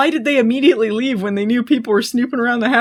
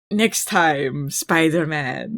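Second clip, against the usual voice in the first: low slow attempted Russian accent; a rough try at a Russian villain accent; 4 semitones lower, 3 dB quieter, much slower than usual. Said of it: "Like, whatever his accent was".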